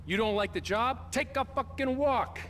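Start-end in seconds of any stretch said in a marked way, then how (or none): 1.1-2.4 sharp dismissal. Acted. Boss dismissing complaining worker.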